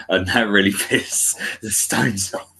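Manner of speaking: words breaking up with laughter; laughing. Real, not acted. Telling co-host how the band got annoyed, laughing.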